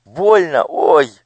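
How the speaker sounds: high, pained yelp; a child hurt and scared; cry of pain. Acted. Elo in pain. (вскрик от боли)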